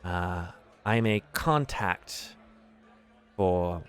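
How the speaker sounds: put-on smooth old contact. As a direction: lean into the insinuation, unhurried. DM voices Davil at length.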